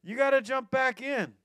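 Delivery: shouted call. Retold or imitated. Friends on the bank insisting, loud shout.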